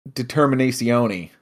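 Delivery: lightly put-on Italian accent; mock Italian, as if quoting an anime hero. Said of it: "In my perfect Italian accent like him".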